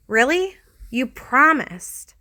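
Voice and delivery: high, slow, fed-up complaint; exasperated. A narrator's reading. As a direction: drag out promised in disbelief. Angry divorce quarrel.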